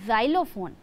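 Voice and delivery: xylophone said "ZAI-lo-fone", with a z sound; teacher's model of xylophone, starting with z; pronunciation of xylophone. Shown as a demonstration. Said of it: "इसका pronunciation होता है".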